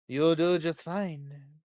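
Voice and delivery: slow, drawn-out character line; slow, composed stranger's voice; voiced investor. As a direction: play the smooth investor, unhurried.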